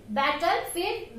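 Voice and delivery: Battlefield said slowly and deliberately; slow Battlefield for the class; slow model word. Shown as a demonstration. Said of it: "Look here".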